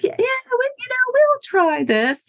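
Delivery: mock the reps' noncommittal yes; imitating sales reps. Sales reps brushing him off.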